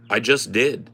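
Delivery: cool as a cucumber reply; calm, no animus. Retold or imitated. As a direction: imitate an unbothered, audacious friend. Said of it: "calm as a cucumber, bro. There was no anim-, animus in his voice at all".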